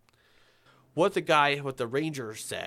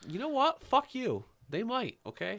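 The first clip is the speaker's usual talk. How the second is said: playful angry outburst; 13 semitones higher than usual. Pretend. Mock angry retort at cohost.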